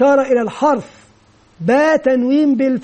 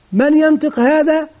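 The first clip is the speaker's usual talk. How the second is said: lightly raised quizzing question; teacher asking pupils; 4 semitones higher than usual. Retold or imitated. Teacher to young pupils, a lightly raised questioning voice. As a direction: ask the little class who can read it. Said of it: "مثلًا إذا قلت".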